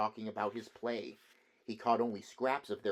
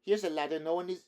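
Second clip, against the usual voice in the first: student voice; 7 semitones higher, 5 dB louder, faster than usual. A narrator's reading. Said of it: "he said".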